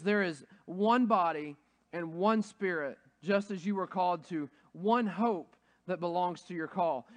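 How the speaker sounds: measured, deliberate scripture read; reading Ephesians to the congregation, slow and solemn. Acted. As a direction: read it slow and weighty, like a proclamation. Reads scripture aloud.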